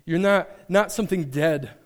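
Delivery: almost screaming in terror; near scream. Acted. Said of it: "almost in a scream".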